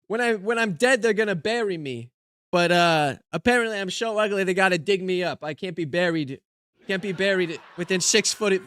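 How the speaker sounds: lightly voiced put-upon comedian; old-school joke delivery with catchphrase; put-on stand-up comic. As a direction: play a hammy one-liner comic. Delivers one-liners as joke comedian persona.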